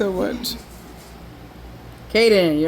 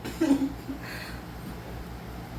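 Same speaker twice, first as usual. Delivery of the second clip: drawn-out s like a snake; 5 semitones higher, 14 dB quieter than usual. Acted. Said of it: "Sound like a snake in kindergarten trying to pronounce its S's".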